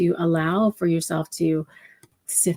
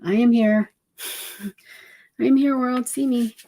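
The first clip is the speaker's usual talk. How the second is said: high, bright-eyed little mouse announcing itself; squeaky triumphant mouse reveal; cute mouse ta-da; 7 semitones higher than usual. Pretend. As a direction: burst out like a tiny mouse on stage. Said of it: "throws open the doors like".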